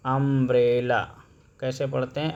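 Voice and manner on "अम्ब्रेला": अम्ब्रेला said clearly, short um at the start; अम्ब्रेला with an open um; model word. Shown as a demonstration. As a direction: sound out अम्ब्रेला as um-brella. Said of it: "इसे पढ़ते कैसे हैं".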